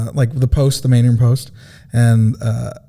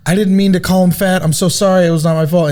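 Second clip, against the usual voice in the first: pleading apology; 4 semitones higher than usual. Retold or imitated. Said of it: "the lady was just like".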